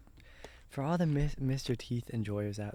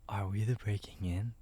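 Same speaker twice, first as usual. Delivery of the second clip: puzzled unvoiced whisper; ASMR whisper. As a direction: whisper it, confused. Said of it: "do A S M R the entire time".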